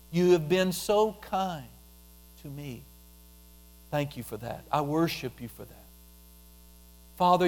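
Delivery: tender worship prayer. Shown as a demonstration. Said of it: "worship Him specifically".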